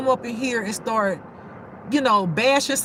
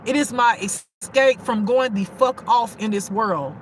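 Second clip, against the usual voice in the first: ordinary delivery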